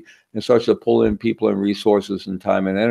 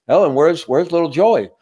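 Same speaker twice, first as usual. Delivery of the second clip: lightly voiced dad, raised pitch; dad George asking; 7 semitones higher than usual. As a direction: call out for the son, a bit higher. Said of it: "George says".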